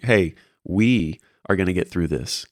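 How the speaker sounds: "we" drawn out slowly, set apart; stress on "we". Shown as a demonstration. Mentor reassuring a mentee, "we" stretched out for emphasis. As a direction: lean long on the word "we". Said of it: "the difference of saying".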